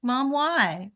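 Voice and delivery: a hint of a child's questioning; curious child. Son pestering mom with questions, mildly whiny curious child. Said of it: "My son was the biggest".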